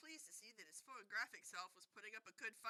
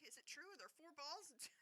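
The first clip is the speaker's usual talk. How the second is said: breathless; 6 semitones higher, 4 dB quieter than usual. A narrator's reading. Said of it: "said Colin breathlessly".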